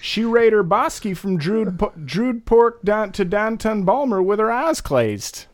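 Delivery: Balmer and Druid with the T's hit too hard. Shown as a demonstration. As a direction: overpronounce every T. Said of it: "hitting the T's too hard".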